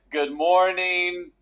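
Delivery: drawn-out, lightly voiced kids' greeting; children's chorus. Kids answer the teacher in unison, lightly mimicked singsong chorus. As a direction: lightly imitate children chanting in slow unison. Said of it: "these little high-pitched, like, tiny little voices".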